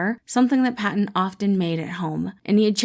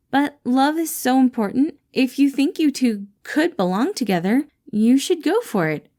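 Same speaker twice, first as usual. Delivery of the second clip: bright caring boss checking in; Patton voiced; 6 semitones higher than usual. Boss greets his employee Remus, cheerful caring voice.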